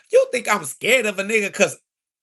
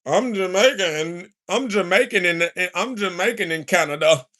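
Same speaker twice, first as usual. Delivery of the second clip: mocking voice. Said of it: "He's like".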